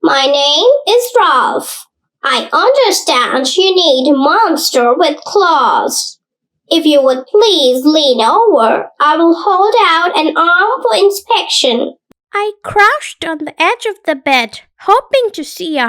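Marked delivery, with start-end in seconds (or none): 0.0-12.0 silky monster voice. Acted. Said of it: "high, silky voice".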